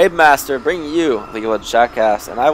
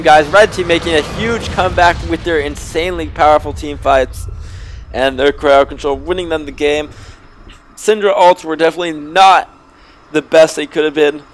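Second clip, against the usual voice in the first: usual speaking voice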